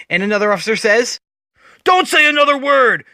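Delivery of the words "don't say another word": shouting. Acted. Panicked officer yells at Riddler.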